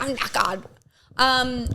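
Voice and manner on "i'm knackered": put-on choked British accent. Mimicking a castmate's choked "knackered", British accent. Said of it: "it sounds like she's choking".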